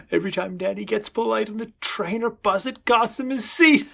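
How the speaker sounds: whispered reading breaking into laughs; reading a joke aloud, laughing; reading with giggles. Acted. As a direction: chuckle through the joke.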